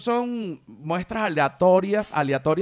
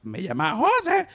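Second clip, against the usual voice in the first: mild parrot voice; 5 semitones higher than usual. Retold or imitated. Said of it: "Decía".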